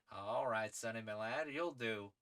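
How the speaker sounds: lightly voiced gentleman adventurer, first try; tentative character voice. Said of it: "debating this man's accent".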